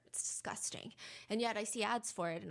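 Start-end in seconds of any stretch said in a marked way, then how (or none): 0.1-0.9 whispered aside. Retold or imitated. Daniel's jail call quoted aloud.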